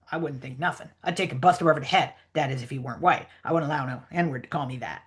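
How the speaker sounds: low, soft dialect character; lightly voiced indignant character, kept low; Jim. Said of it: "try to sort of read the Jim lines".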